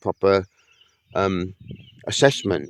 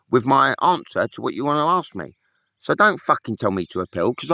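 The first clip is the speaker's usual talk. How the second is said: angry rant; 5 semitones higher than usual. Real, not acted. Ranting at Facebook over suspension.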